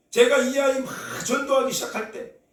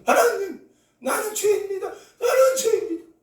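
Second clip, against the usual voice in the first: echoed prayer; 10 semitones higher, 3 dB louder than usual. Retold or imitated. Girl echoing the prayer.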